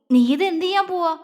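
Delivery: flustered. A narrator's reading. Husband alarmed as wife brings the first aid box, flustered. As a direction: caught off guard and rattled. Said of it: "അവനൊരു വെപ്രാളത്തോടെ ചോദിച്ചു".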